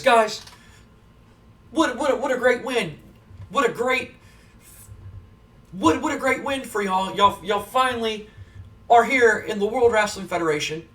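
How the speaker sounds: a hint of a gushing backstage reporter; Michael Cole interviewer. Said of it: "Michael Cole stops him and goes".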